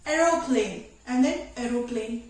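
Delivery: aeroplane said plain, then with a long open A; plain then stretched A. Shown as a demonstration. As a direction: contrast the two aeroplane, second stretched. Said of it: "there is a difference".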